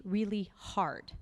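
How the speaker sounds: slow breathy whisper; whispered emphasis. Acted. Speaker telling the audience about hard times: slow whisper. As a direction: drop to a hushed whisper on really hard.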